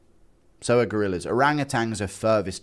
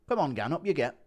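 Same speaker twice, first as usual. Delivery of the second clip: waking someone up; 6 semitones higher than usual. Acted. Tom trying to wake him up, raised voice. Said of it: "Tom trying to wake him up".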